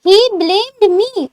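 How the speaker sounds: very slow, word by word; slow model. Shown as a demonstration. Teacher first says the answer slowly to students. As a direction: drag each word for learners.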